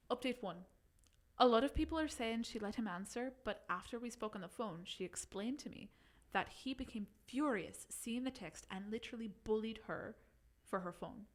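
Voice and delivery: put-on light Irish accent reading. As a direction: keep the Irish lilt going. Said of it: "Your accent? I think it sounds great".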